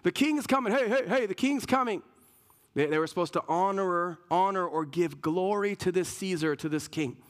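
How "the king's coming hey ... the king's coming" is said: hammed-up villager spreading royal news; excited townsperson. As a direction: perk up as if the king is at the gate. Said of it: "perk up and pay attention and be like".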